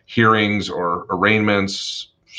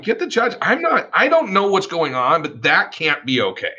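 much higher, urgent and indignant; outraged demand; 8 semitones higher than usual. Retold or imitated. Young attorney demanding the judge from opposing counsel, outraged.

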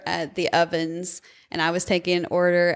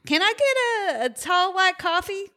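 high, strained grimacing order; mocking a cringing drive-thru lady; cringing customer; 9 semitones higher than usual. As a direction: squeeze the words out with a cringe. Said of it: "this one lady's like".

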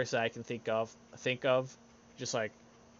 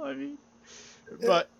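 normal talking voice

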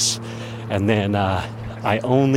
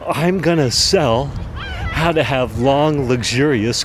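high, slow proclamation of a big idea; retold eureka moment, pitched up; triumphant announcement; 4 semitones higher than usual. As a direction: proclaim it grandly, stretching the words. Retold triumphant new business idea.

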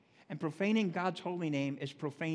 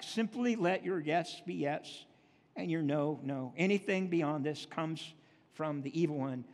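scripture reading. Acted. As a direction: proclaim each verse deliberately. Reads Matthew aloud from pulpit.

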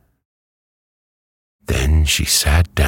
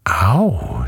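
high "ow" of pain; pained cry; 8 semitones higher than usual. A narrator's reading. Hen strikes metal with her beak, pained cry. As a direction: yelp without much volume. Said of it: "she cried".

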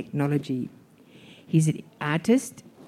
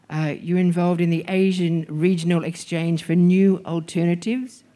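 muffled behind a mask; speaking through a mask; through a face mask. Real, not acted. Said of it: "Excuse my mask".

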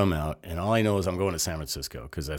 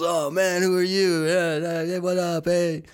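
much higher and louder, buddy-buddy greeting; excited greeting; 13 semitones higher, 7 dB louder than usual. Retold or imitated. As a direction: greet a fellow Marine with loud high glee. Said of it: "He goes".

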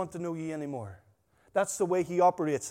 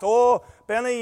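mock teasing call; 4 semitones higher, 9 dB louder, slower than usual. Workmates laughing at Benny.

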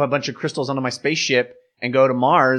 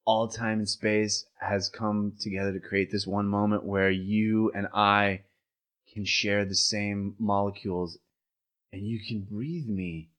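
spaced out and sincere; stoner; 3 semitones lower, 5 dB quieter than usual. Acted. Stoned love confession.

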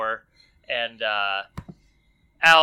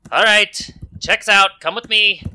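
high, loud little gnome; chirpy gnome greeting the party; lightly squeaky gnome; 8 semitones higher, 11 dB louder than usual. Acted. GM voices the gnome.

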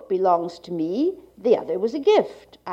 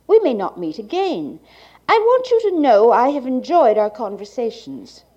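like a 1980s archival tape; 2 semitones higher, 4 dB louder than usual. Real, not acted. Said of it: "the cassette holding the speaker's reading".

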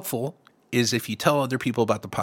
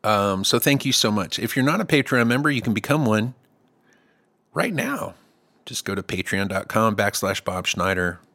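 lightly hammed-up pitchman; sales pitch voice. Real, not acted. Host plugging his Patreon to listeners, mild sales pitch voice. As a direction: slip into a mild salesman patter. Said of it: "I don't know why I'm talking like this".

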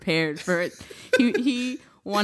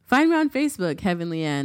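over-the-top self-promo announcer; hammed-up promo plug; 5 dB louder than usual. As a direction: sell yourself like a goofy ad jingle. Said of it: "Why can't you just say that shit?".

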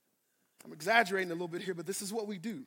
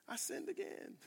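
whispered confession; 9 semitones higher, 14 dB quieter than usual. Real, not acted. Confessing failure.

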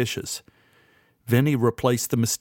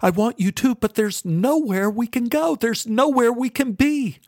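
high, tearful reassurance; crying; 11 semitones higher than usual. A narrator's reading. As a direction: comfort her through your own tears. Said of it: "I began crying as I held Beth".

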